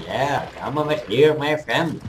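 high, loud luring call; playful calling out. Pretend. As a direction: beckon the enemy over like a pal. Luring an enemy player over in play.

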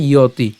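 "ইয়তি" as low ya-ti; pronunciation demo. Shown as a demonstration. Teacher answering how it is pronounced, "ইয়তি" as ya-ti. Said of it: "উচ্চারণটা কেমন হবে".

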